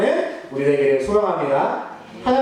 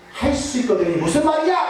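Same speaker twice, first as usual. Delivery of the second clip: rebuke; 3 semitones higher than usual. Retold or imitated. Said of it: "라고 꾸짖으시는 거예요".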